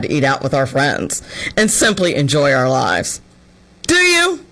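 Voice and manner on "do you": higher mocking question into a squeaky laugh; sarcastic. Mocking the TikToker's eating-out budget, high sarcastic laugh. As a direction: tease her disbelievingly.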